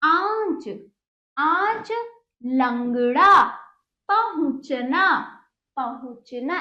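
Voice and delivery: deliberate model for pupils to repeat; pronunciation drill. Shown as a demonstration. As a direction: separate words with held nasal vowels. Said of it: "इस प्रकार इसका उच्चारण हुआ".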